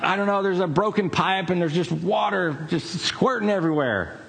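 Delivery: high, mock-panicked lady's voice; retold household panic, high-pitched; imitating flustered caller. Retold frantic caller explaining broken pipe.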